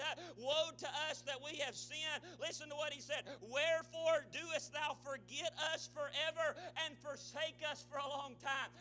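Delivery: preached scripture reading. Acted. Preacher reads a lament to church, forceful declaiming. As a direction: declaim the verse to the congregation.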